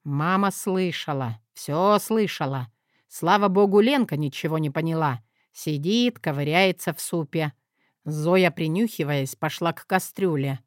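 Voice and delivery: ordinary delivery, nothing marked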